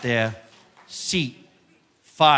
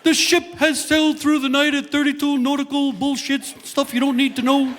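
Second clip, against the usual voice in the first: ship captain announcement; 10 semitones higher than usual. Retold or imitated. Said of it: "captain comes over the loudspeaker".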